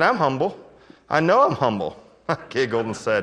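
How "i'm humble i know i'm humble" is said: insistent. Retold or imitated. Acted quote of man insisting he's humble.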